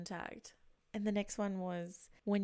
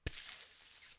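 imitated pee noise; 9 dB quieter than usual. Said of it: "So I'm like".

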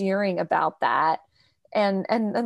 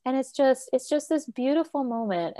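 teary-eyed; 3 semitones higher than usual. Real, not acted. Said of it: "a little teary-eyed".

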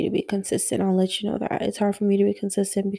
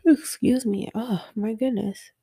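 yawning; 2 semitones higher than usual. Real, not acted. Interrupting her late-night talk to excuse herself, yawning. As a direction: apologize through a real yawn, fading away. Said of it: "I keep yawning".

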